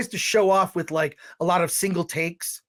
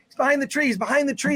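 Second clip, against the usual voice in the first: mocking daughters; 6 semitones higher, faster than usual. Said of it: "they'll say".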